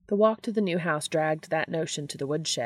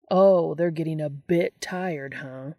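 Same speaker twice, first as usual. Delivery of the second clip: louder, slow sarcastic drawl; sarcastic mock; 4 dB louder, slower than usual. Dean mocking Castiel's small complaint, slow and sarcastic. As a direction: throw his words back at him.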